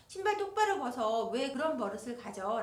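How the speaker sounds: mild scolding. Retold or imitated. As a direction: snap about the shoes. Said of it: "화가 나면".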